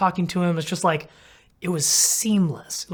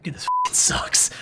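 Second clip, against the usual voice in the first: inner voice. Retold or imitated. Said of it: "in my head, I was like".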